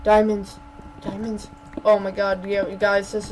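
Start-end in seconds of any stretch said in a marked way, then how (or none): 0.0-0.6 "Diamonds" said loud and bright; excited. Real, not acted. Excited discovery. 1.0-1.5 "Diamonds" repeated softly, in hushed awe; awed hush. Real, not acted.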